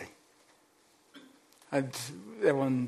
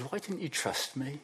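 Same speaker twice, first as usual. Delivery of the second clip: soft rebuke; 3 semitones higher, 6 dB quieter than usual. Retold or imitated. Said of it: "and says".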